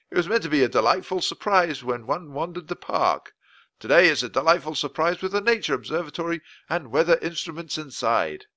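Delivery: a hint of a proper old-fashioned gentleman; polite official explaining; lightly voiced weather man explains the castle to children. Voice of Mister Perkins.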